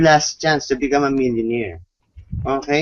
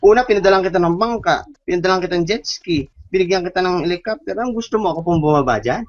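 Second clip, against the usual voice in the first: God's exasperated reply; 2 semitones higher than usual. Retold or imitated. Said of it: "Sabi ni God".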